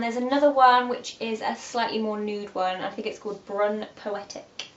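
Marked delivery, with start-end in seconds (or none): 3.5-4.7 sexy. Real, not acted. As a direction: purr it quietly, drawn out. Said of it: "Make it sound so sexy".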